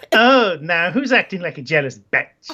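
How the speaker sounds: put-on accent, taunting; Isabella. Isabella taunts her boyfriend on the phone, put-on accent. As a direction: throw it back in a put-on female accent. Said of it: "this is the best accent ever".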